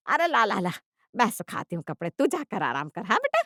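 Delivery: lightly acted fussing mother-in-law; doting mother-in-law. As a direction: coax her sweetly, lilting up at the end. Mother-in-law sweetly takes over the chore.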